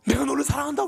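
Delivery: high, loud proclamation; divine shout. Retold or imitated. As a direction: call it out like a voice from heaven. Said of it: "외침이 막 들리는 것 같았어요". (하늘에서 울리듯 높고 크게 외치며)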